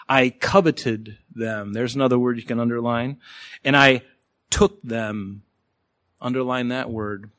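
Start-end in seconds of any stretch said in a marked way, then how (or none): 0.1-1.7 "coveted" drawn out slowly; emphasis on verb. Shown as a demonstration. Preacher marking verbs to underline, slow stress on "coveted". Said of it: "I'll emphasize them". 3.6-5.4 "took" set apart after a pause; emphasis on verb. Shown as a demonstration. Preacher marking verbs to underline, pause before "took". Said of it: "I'll emphasize them".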